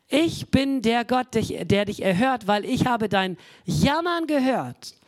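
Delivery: God's voice. Acted. Preacher voices God slowly.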